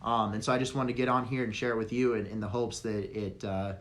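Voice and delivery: raspy, losing voice; strained, hoarse throat. Real, not acted. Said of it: "I'm losing my voice here".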